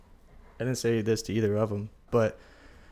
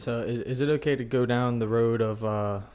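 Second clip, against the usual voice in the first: window down on highway. Real, not acted. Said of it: "the windows are down, and we're in overdrive on the highway".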